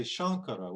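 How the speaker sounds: Shankara with an ng before the k; correct nasal. Shown as a demonstration. Teacher giving the right nasal, ng in Shankara. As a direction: say Shankara as SHANG-kara. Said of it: "with this nasal here".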